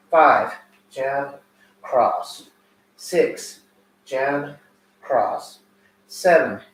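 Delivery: loud count, short punchy calls; boxing coach calling combos. Acted. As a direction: call each combo like a coach.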